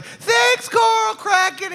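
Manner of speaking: high shouted crowd thanks; cheering crowd. Retold or imitated. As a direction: shout it like an adoring mob. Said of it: "And everyone's like".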